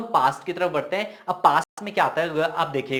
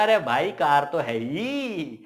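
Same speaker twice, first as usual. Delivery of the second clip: drawn-out, cocky insistence; swaggering boast; slower than usual. Acted. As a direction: stretch the words out and let them swoop down. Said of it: "वो चौड़ में हो गया".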